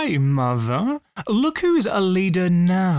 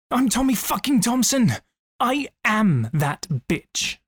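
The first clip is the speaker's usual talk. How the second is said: defiant self-pep-talk; 6 semitones higher than usual. Acted. Hyping oneself up after self-doubt, defiant and rallying.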